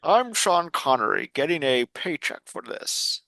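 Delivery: lightly voiced bad celebrity impression; a hint of Scottish movie-star voice; Sean Connery. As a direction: do a half-hearted Scottish film star. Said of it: "This is my bad impression".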